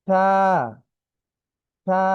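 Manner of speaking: সা with tongue tip on the teeth, soft sound, little stretch. Shown as a demonstration. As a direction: model a soft সা. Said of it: "এর উচ্চারণ কিভাবে হবে?". (নরম আওয়াজে সা)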